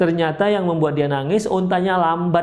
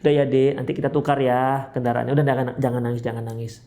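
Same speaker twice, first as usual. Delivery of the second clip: tender reassurance that trails into a hush; gentle soothing; 3 semitones lower, faster than usual. Acted. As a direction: play a husband calming his crying wife. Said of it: "tenangkanlah dia".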